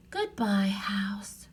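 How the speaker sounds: soft unvoiced farewell; whispering. A narrator's reading. Annie saying farewell to the treehouse, whispered. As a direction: whisper goodbye tenderly. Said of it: "whispered Annie".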